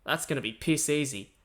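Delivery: lightly acted scoff, understated; mock scoffing. Host voicing listeners who heard the content, mildly scoffing. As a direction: imitate a dismissive listener, only mildly. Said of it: "are now scoffing, going".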